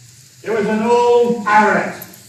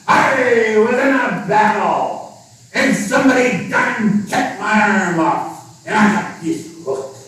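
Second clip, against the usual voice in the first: pirate voice; 3 semitones higher than usual. Acted. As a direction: growl it like an old pirate.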